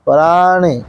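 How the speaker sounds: पराणि with a clear retroflex ण. Shown as a demonstration. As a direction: curl the tongue for ण in पराणि. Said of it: "यह न जो है सो टबड़गी न है". (पराणि में मूर्धन्य ण)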